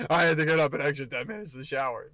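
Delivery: a cranky morning monster griping; hammed-up grumpy demon rant; Demon Sean voice. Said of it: "Demon Sean came out".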